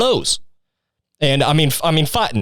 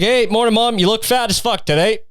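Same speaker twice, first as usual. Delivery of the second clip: cheery insult; 6 semitones higher than usual. Acted. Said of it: "she'd be like".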